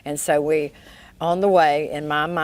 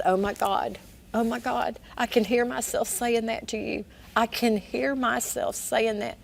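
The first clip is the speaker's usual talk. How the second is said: higher, pained voice of shocked regret; anguished realization; 7 semitones higher than usual. Retold or imitated. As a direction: let it rise in disbelief and pain. Rick realizing what he said.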